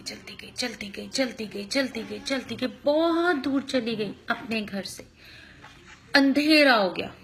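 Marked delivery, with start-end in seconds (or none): 0.0-2.7 fading away. Acted. Walking farther, storytelling to kids.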